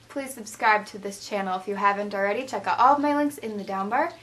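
flat robotic outro voice. Real, not acted. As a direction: recite it like a robot. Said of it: "Sorry for talking like a robot in that".

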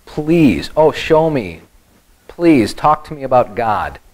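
acted snide mock request. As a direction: play Job lightly sneering at his advisers. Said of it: "Job is showing himself this snide".

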